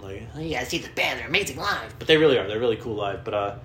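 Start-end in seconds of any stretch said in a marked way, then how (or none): 0.3-2.0 put-on higher, gushing kid voice; little kid. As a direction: gush like an excited child. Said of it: "like a little kid saying".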